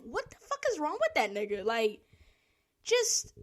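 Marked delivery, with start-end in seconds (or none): 0.0-1.6 baffled outrage. Retold or imitated. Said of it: "I was like".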